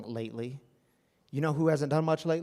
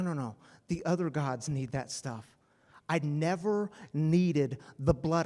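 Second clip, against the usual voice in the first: voice of God; 3 semitones higher than usual. Acted. God stopping Abraham from the sacrifice, gently firm. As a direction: gently halt him, then let the last word go voiceless.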